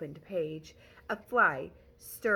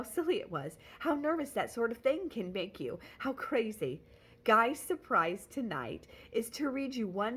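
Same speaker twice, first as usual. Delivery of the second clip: quavery voice; 4 semitones higher than usual. Acted. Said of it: "in a quavery voice".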